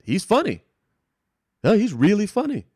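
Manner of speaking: mild impression of the judge; imitating judge. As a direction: mimic her amused surprise. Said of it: "She was like".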